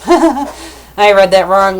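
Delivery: real laugh breaking into the words; laughing at oneself. Real, not acted. Reader owning up to a misreading, laughing. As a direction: laugh through the admission, loud.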